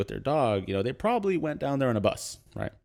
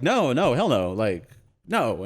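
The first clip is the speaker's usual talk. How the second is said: hammed-up refusal; 2 semitones higher, 4 dB louder, slower than usual. Friend refuses gun request.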